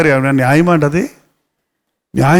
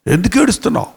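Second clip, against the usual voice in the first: Jesus asking gently; 3 semitones higher, faster than usual. Acted. Jesus asks Mary again.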